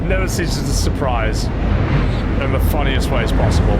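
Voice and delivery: loud, slow, amazed; excited. Real, not acted. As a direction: marvel loudly at the game. Amazed outburst after laughing.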